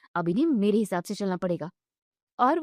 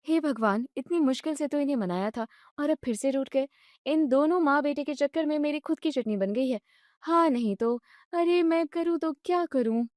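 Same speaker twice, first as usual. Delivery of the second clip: higher, fretful wife's lament; exasperated young wife; 4 semitones higher than usual. Acted. Wife lamenting caught between husband and mother-in-law, fretful. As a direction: throw up your hands in despair.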